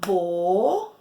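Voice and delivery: "boneca" as bo... ne... ca, long pauses between; syllable by syllable. Shown as a demonstration. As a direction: clap out "boneca" in three separate beats. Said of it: "Quantas vezes eu bati palma".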